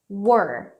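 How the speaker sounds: we're said like were, one syllable. Shown as a demonstration. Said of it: "que seria tipo assim". (we're pronunciado como were)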